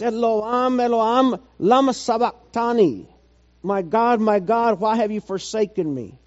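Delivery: retold cry from the cross. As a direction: call it out high, easing off toward the end. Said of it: "when he yelled out".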